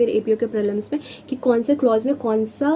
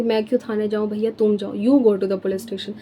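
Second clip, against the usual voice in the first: dismissive retort; 3 semitones lower than usual. Retold or imitated. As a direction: lightly mimic someone telling another to go themselves. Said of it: "हम ऐसे बोलते हैं ना कि".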